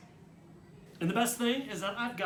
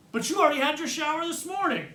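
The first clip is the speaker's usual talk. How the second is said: high, raised-voice complaint; yelled protest; 10 semitones higher, 4 dB louder than usual. A narrator's reading. Brother arguing with his sister from the shower, yelling. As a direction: protest loudly through the door. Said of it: "I yell".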